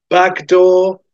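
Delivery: urgent demand. Acted. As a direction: demand the exit mid-fight. Bond demands exit during the fight.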